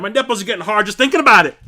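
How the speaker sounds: loud, fast and laughing; excited. Real, not acted. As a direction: gush about it with a laugh. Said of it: "I'm getting excited".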